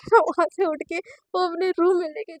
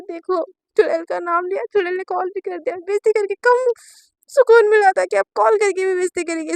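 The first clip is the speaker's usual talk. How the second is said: crying, louder at end; tearful grumble; 3 semitones higher, 4 dB louder than usual. Acted. Naina crying as her wife's call comes in, tearful. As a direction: sob out complaints.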